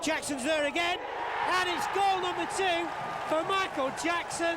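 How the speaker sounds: high, rising goal call; excited goal call. Real, not acted. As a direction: lift the voice as he scores. Commentator calls a goal.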